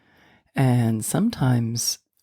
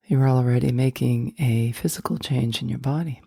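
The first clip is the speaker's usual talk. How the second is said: guided meditation; 2 semitones lower than usual. Acted. Host guiding listeners to let go of stress, guided meditation. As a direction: guide them gently inward, leaving space between phrases.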